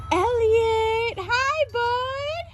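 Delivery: high, drawn-out pet greeting; affectionate calling. Real, not acted. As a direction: call sweetly to a beloved cat. Calling to a beloved cat.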